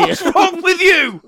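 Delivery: high, loud, very slow drawn-out complaint; mock exasperation. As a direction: stretch it out in theatrical disbelief.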